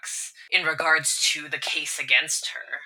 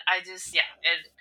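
ordinary delivery

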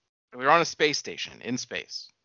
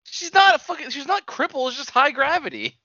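shouted rebuttal; 12 semitones higher, 3 dB louder than usual. Real, not acted. Heated argument about the character.

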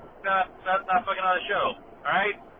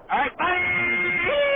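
cheery goodbye; 8 semitones higher, 3 dB louder, much slower than usual. Acted. Caller signing off voicemail.

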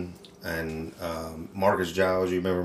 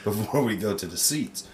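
laughing; 3 semitones higher, 5 dB louder than usual. Retold or imitated. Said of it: "I was like".

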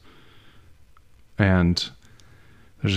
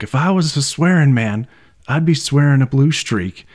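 higher, louder mock outburst; imitated angry rant; 6 semitones higher, 5 dB louder than usual. Student retells teacher losing it, imitated angry rant. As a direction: rant like a fed-up teacher, retold. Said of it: "end of his rant".

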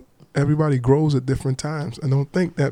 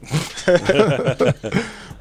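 hearty laugh; 4 semitones higher than usual. Real, not acted. Laughing at own joke.

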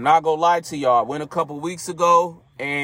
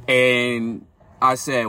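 yawning; much slower than usual. Real, not acted. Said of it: "I was yawning".

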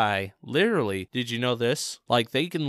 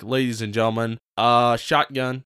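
radio voice. Pretend. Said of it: "You get back to my radio voice".

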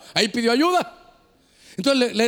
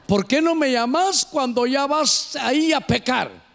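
a raised scolding cry at the drinker; mock rebuke; 2 semitones higher than usual. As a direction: call him out on his sin. Pastor reprende al borracho. (reproche en voz alta al borracho)

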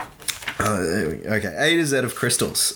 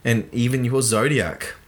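reading a blurb aloud. Acted. Reading the crystal book's blurb to his co-host, mock earnest. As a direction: read it like the back of a self-help book. Reads the book's back cover.

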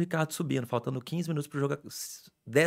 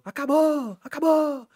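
very high-pitched imitated cheer; high, drawn-out mock celebration shout; retold victory cry; 4 dB louder, slower than usual. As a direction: re-enact calling out that it's over. Retelling shout as elevator opens.

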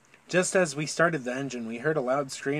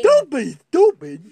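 much higher, loud, laughing; mock dad yell; 12 semitones higher, 12 dB louder, slower than usual. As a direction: shriek the scolding as a joke. Repeating dad line mockingly.

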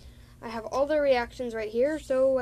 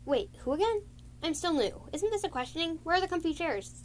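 higher, lightly voiced confused young cat; clueless newcomer; 8 semitones higher than usual. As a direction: naive and puzzled.

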